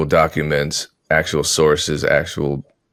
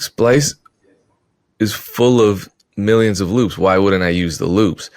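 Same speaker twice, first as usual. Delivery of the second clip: high-pitched disbelief, easing down by the end; incredulous retort; 3 semitones higher than usual. Retold or imitated. Producer answering advice not to use the loops, incredulous. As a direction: push back as if it's obvious.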